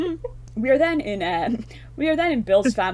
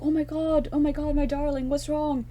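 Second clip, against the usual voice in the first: much higher, breathless alarm; panicked mother; 9 semitones higher than usual. Retold or imitated. Mother finds her son hiding in the cupboard, high panicked pleading. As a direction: gasp it out like a scared mum.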